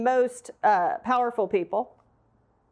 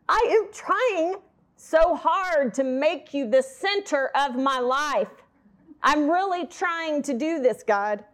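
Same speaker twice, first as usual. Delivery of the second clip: earnest plea; slower than usual. Acted. Voicing own plea to God.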